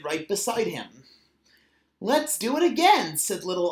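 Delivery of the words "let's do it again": higher and louder, eager plea. A narrator's reading. Little otter asking mother to slide again, eager. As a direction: beg for one more slide. Child excited after sliding.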